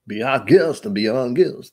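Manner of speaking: hammed-up French accent of a cartoon candlestick; mock French showman; French candlestick impression. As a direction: play the French candlestick host, half-singing. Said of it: "candlestick in Beauty and the Beast".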